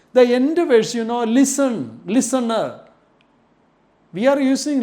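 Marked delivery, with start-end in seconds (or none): 2.1-2.8 "listener" ending in an open "uh"; silent final R. Shown as a demonstration. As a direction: say "listener" as "lis-nuh", no R. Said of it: "The last r sound is not using".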